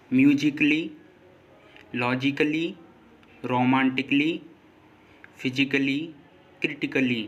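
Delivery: musically, logically, romantically, physically, critically with the A before LLY left silent. Shown as a demonstration. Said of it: "ए silent होता है". (musically, logically, romantically, physically, critically में ए silent, "क्ली" बोलें)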